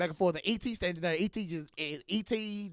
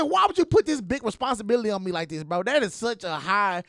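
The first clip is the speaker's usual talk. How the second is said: exasperated protest; 3 dB louder than usual. Retold or imitated. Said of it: "I said".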